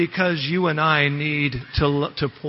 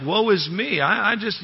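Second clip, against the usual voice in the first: mock whining; 4 semitones higher than usual. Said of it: "he's just whining it out to the Lord".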